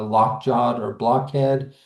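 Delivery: "lockjaw or blockhead" with weight on both halves of each compound; two beats each: LOCK-JAW or BLOCK-HEAD; both syllables stressed. Shown as a demonstration. Teacher giving spondee examples, both syllables stressed. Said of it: "of the word are stressed".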